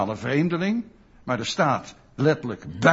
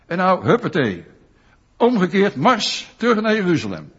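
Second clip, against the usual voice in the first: loud, brisk marching orders; bossy command; 2 semitones higher, 5 dB louder than usual. Retold or imitated. Preacher voicing an imagined stern Jesus, mock commanding. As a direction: bark it like a drill sergeant turning them round. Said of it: "Die zegt niet".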